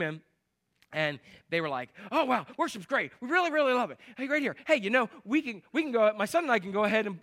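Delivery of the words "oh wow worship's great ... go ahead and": eager newcomer. Retold or imitated. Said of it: "what I call the Tasmanian devil".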